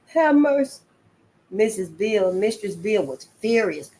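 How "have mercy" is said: high, loud crying plea; fearful plea. Acted. Frightened boy begging God while crying. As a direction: cry out to God in terror.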